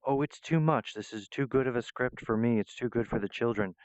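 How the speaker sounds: hammed-up humble act; mock false modesty. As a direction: play it overly modest, fishing for praise. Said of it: "false modesty".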